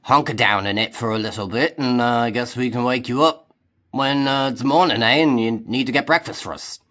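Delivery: a hint of a hearty pirate offering his tent; friendly Crom. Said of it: "And Crom nods and goes".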